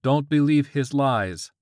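high, loud commanding God; hissed divine warning. A narrator's reading. God warns George from his pants, forceful hiss. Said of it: "God hissed".

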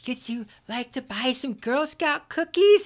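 put-on high, sweet little girl asking; little girl seller. Little Girl Scout to a man outside the store, sugary high pitch. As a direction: coax a buyer like a cute eight-year-old. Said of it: "They go".

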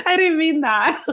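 high giggly voice; trying to stop laughing. Real, not acted. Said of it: "Stop making me laugh".

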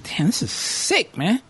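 hushed whisper, appalled; whispered "damn" at the screen; whispered disgust. Retold or imitated. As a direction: breathe it out under your breath. Whispered reaction to the scene.

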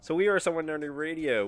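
high, loud hosting voice; radio announcer. Acted. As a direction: announce the show with gusto. Show intro announcer voice.

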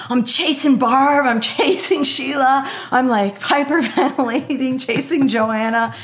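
high, loud, stretched-out gushing; lit-up excitement. Retold or imitated. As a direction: gush breathlessly as if chasing your idols. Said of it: "my face lit up".

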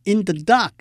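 in the dark, weight on dark; light-light-heavy stress. Shown as a demonstration. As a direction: glide over in the and land on dark. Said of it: "也是轻轻重的组合".

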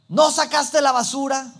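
loud, high reproachful nag; nagging wife. Retold or imitated. Wife scolding her husband as he gets home, loud and reproachful. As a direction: snap it like a tired wife at the door.

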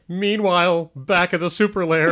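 timid, shaky announcer attempt with a laugh; nervous try at a cartoon narrator; spooked and shaky. Shown as a demonstration. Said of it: "Why do you sound scared?".

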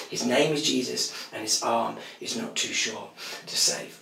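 whispered, intimate sermon voice; hushed preaching. Acted. Preacher drawing the church close, in a hushed whisper. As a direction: lean in and whisper it to the congregation.

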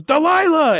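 high-pitched cry of a name; mock desperate call. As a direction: imitate calling out after someone running away. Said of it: "and he goes".

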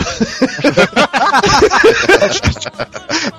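laughter running way up high. Real, not acted. Guest laughing at his clumsy apology to gaúchos. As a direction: laugh off your own excuse.

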